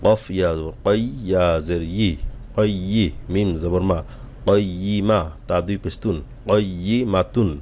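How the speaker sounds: each letter spelled on its own breath, slowly, returning to the start; slow separate spelling. Shown as a demonstration. Teacher showing students the right way, slow letter by letter. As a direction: take it one letter at a time, slowly. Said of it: "এক এক নিঃশ্বাসে আস্তে আস্তে করে পড়ার".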